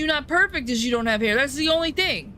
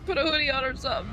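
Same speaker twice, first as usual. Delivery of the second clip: 1 mock yell; 2 semitones higher, faster than usual. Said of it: "People would be like".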